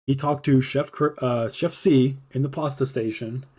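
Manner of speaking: slow, stiff, formal read-out; official report reading. Retold or imitated. Boss reading the written report to the chef, formal and slow. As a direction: read it like a dry military report. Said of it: "reads it off like it's some fucking official military report".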